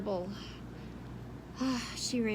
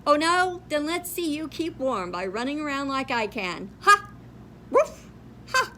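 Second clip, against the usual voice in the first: loud jeering dog voice; high, loud dog taunt; 4 semitones higher, 4 dB louder than usual. Acted. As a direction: gloat like a cocky dog.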